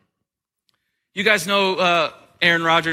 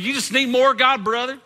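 preachy Christian; 4 semitones higher than usual. Retold or imitated. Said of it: "They'll say things like".

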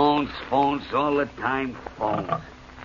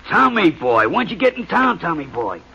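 much louder, higher glad-handing hello; hearty greeting; 5 semitones higher, 5 dB louder than usual. Acted. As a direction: greet the star over the phone like an old pal. Publisher greets a star bandleader.

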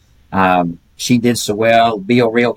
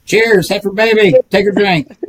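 cheery toast; 9 semitones higher, 3 dB louder than usual. Real, not acted. Toasting the heifer babies.

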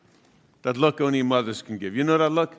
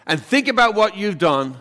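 louder, firm parental command; mother's order; 3 semitones higher, 4 dB louder than usual. Retold or imitated. Mother punishing her son, firm and raised. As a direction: lay down the rule like a mom. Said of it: "say, like".

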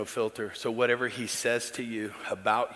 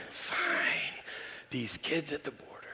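dismissive dad; 2 semitones higher, 9 dB quieter than usual. Retold or imitated. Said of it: "every time I go".

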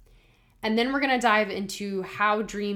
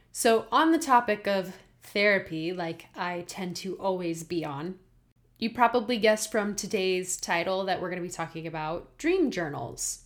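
lisping on aligners; slight lisp. Real, not acted. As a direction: talk with a mild aligner lisp. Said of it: "excuse my lisp, I just got a new Invisalign".

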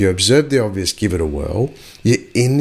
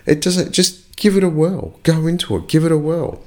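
excited; 8 semitones higher than usual. Real, not acted. Urging viewers to just try.

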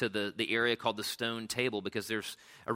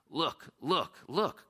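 excited high calls, rising; a child crying out to her siblings; cried out; 5 semitones higher, much slower than usual. A narrator's reading. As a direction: call out eagerly, pitch climbing. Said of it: "cried Lucy".

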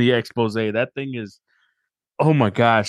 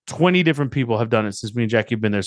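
normal talking voice

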